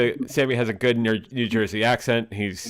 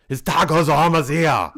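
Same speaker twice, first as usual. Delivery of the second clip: excited call; 5 semitones higher, 7 dB louder than usual. Real, not acted. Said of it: "excited announcement".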